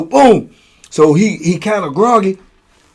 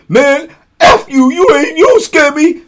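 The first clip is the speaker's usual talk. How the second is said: a cellmate cursing back, high and loud; defiant comeback; 11 semitones higher, 4 dB louder than usual. Retold or imitated. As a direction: throw it back at him, unafraid.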